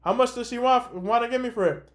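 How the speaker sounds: imitating mom calling out from another room; calling from background. Hear her mom in the background.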